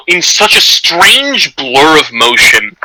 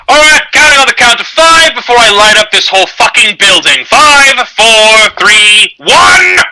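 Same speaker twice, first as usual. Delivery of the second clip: a raised, hammed-up countdown threat; threatening countdown; 6 semitones higher than usual. GM voicing the captain threatening to burn the building, menacing. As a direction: count them down like you'll torch the place.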